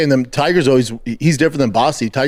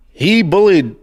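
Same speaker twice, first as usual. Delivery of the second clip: incredulous dad; 6 semitones higher, slower than usual. Retold or imitated. Dad scolding son over bullying.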